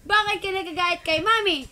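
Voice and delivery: quick, mock-stern question; mildly scolding mom, fast; pretend scolding. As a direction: playfully challenge a cross baby. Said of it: "Papagalitan ka kunwari ni Mami".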